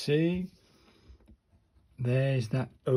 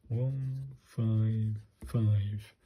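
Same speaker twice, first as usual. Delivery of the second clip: drawn out, each number spaced apart; slow careful read-out; 2 semitones lower, much slower than usual. Shown as a demonstration. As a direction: spell the number out slowly, one at a time.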